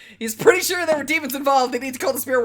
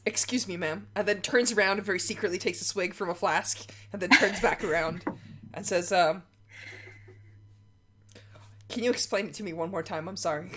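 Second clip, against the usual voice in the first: a hint of a rattled man, much softer; shaken and steadying; 4 semitones lower, 7 dB quieter than usual. Rattled Doug quietly asking Maya to explain again. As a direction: hold it together after a swig. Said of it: "hard steadying breaths".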